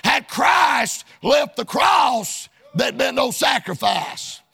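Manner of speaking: steady, insistent pulpit cadence; preaching. Real, not acted. Preacher on the mockers' half truth, preaching. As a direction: preach it in rhythmic phrases.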